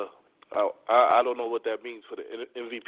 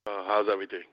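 stuffy nose; 4 semitones lower, faster than usual. Real, not acted. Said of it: "You sound like you're a little under the weather".

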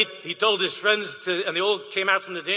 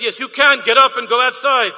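put-on old man insisting; 5 semitones higher, 8 dB louder than usual. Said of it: "an old man came over to me".

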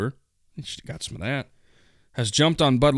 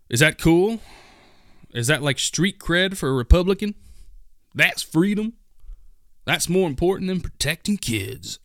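sarcastic questions pitched up high; mock disbelief; 6 semitones higher than usual. Real, not acted. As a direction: needle them with fake wonder. Sarcastic mock questions about gun culture.

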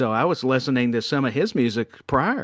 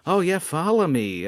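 creepy come-on; 4 semitones higher than usual. Acted. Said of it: "that was creepy as".

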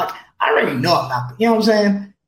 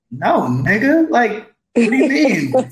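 higher, drawn-out indignant comeback; mock-indignant pushback; incredulous retort; 5 semitones higher, 3 dB louder, slower than usual. Mock reply to flight request.

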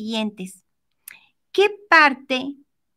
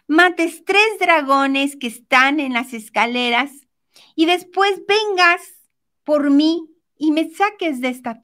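pleading princess; 3 semitones higher than usual. Acted. Princess asking the prince to rescue her, urgent pleading. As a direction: urge him on, stretching the requests out.

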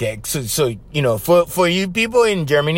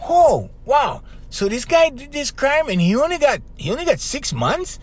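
mock outraged viewer; 9 semitones higher than usual. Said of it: "and they go".

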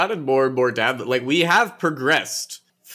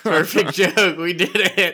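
triumphant; 6 semitones higher, slower than usual. Real, not acted. Repeats pun louder.

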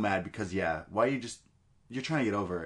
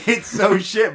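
laughing; 10 semitones higher, 10 dB louder, slower than usual. Real, not acted. Laughing at a bad promo.

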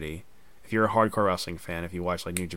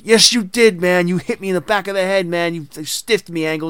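mock furious accusation; 7 semitones higher, 5 dB louder than usual. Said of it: "he thought it was Kurt who tried to stiff him".

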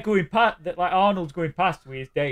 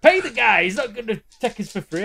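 raised, mock-arsey demand; 6 semitones higher, 3 dB louder than usual. He won't take us for free, arsey with Arnold in retelling. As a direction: get shirty, as an imitation. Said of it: "he gets very arsey with Arnold".

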